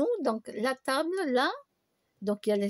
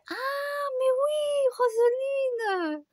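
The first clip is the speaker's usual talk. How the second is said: high squealing recognition, drawn out slowly; delighted friend; 14 semitones higher, much slower than usual. Retold or imitated. Friend recognizing her at the New Year party, squealing high. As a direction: squeal her name like a thrilled old friend. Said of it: "elle me dit".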